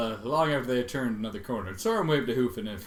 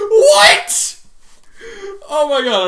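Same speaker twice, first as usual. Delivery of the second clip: very high, loud cry of disbelief; stunned reader screaming at the text; shocked shriek; 15 dB louder, much slower than usual. Real, not acted. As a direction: shriek at the page. Reader shocked by what comes next.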